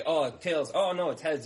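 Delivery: put-on a touch of a kid's excited call on a coin toss; mock dismay as the coin lands; lightly played kid losing a bet. Kids betting business cards on coin.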